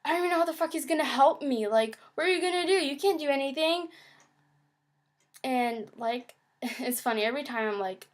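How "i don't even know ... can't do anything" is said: fast, high, exasperated rant; frustrated rant. Retold or imitated. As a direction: rattle off the disbelief fast. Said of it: "I was pretty much like".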